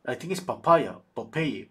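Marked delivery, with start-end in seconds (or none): 0.4-1.0 papaya, said like the fruit, puh-PIE-uh; unsure English guess. Real, not acted. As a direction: guess the name as papaya, stressed in the middle. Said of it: "how to say it in English".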